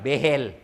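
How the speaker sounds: P=A; Bugis pronunciation. Retold or imitated. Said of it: "Orang Bugis bilang".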